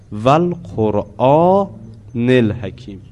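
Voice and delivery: slow intoned verse; Quran recitation. Shown as a demonstration. Teacher quoting the verse to class, slow recitation. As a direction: recite it slowly, word by word.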